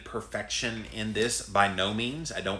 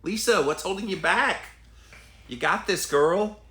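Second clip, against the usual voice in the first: higher, bright pep-talk encouragement; cheering on; 8 semitones higher, 4 dB louder than usual. Real, not acted. Cheering on viewer Lisa, excited and encouraging. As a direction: hype her up like a coach.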